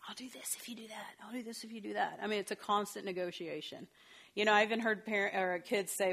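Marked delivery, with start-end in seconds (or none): 0.1-2.2 sly whispered bargaining; whispered bribe. Retold or imitated. Parent bribing the kid, whispered under breath. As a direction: hush it like a secret deal.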